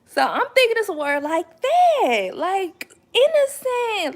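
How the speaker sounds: high, loud, worked-up retelling; excited disbelief. Real, not acted. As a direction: tell it like you still can't believe it.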